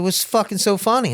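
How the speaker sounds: high, retold confrontational question; mock angry demand. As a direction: act out an irritated challenge. Retold confrontation, man demands answer.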